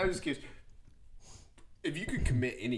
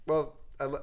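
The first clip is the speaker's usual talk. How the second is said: mom voice; 3 semitones higher than usual. Retold or imitated. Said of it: "I just did your mom's voice".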